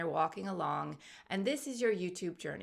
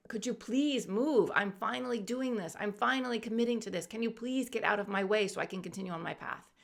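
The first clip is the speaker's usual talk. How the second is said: higher-pitched, insistent retold plea; exasperated plea; 3 semitones higher than usual. Walker begs the rock woman to move, mildly exasperated. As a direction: act out begging someone to step aside.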